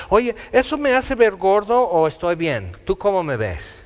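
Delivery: más agudo y fuerte, voz de alguien presumido; pregunta coqueta imitada. Retold or imitated. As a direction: hazlo como quien busca un cumplido. Imita a alguien preguntando por su aspecto. (imitando a una persona vanidosa que pide opinión, voz más aguda)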